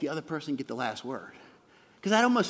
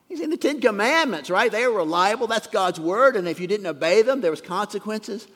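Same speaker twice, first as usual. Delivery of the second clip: raised, louder preaching push; preacher leaning into the congregation; emphatic preaching; 4 semitones higher, 7 dB louder than usual. Real, not acted. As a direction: drive the point home with force. Preacher drives home a point.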